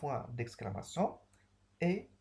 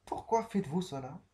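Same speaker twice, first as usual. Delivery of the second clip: questioning tune; 4 semitones higher, 3 dB louder than usual. Shown as a demonstration. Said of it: "Je cherche une réponse".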